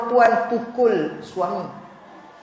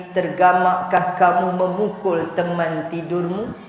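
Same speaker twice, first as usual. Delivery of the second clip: gentle rebuke; 3 semitones lower, slower than usual. Retold or imitated. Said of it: "Lalu kata Nabi".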